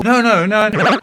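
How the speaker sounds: loud, high string of no's; emphatic no. Acted. Narrator cutting off his own retelling, loud no's. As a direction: stop yourself loudly and restart. Restarting the story, correcting himself.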